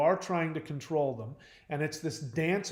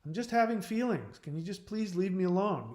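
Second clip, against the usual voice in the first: higher, gentle pleading to be left alone; retold plea; 5 semitones higher than usual. Grieving son asking fixers to leave him alone, lightly pleading. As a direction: ask them to back off, a bit higher and weary. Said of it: "And I'd say".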